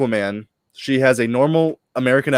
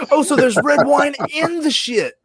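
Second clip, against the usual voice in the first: laughing through the words, pitched way up; cracking up mid-sentence; 13 semitones higher than usual. Real, not acted. Host cracking up at the red wine detail, laughing.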